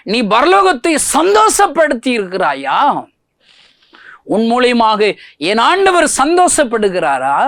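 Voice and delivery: high, loud challenging sermon questions; preaching at full force. Acted. Preacher challenging Christian friends to win sinners, full-force preaching. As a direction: hammer each question at the listeners.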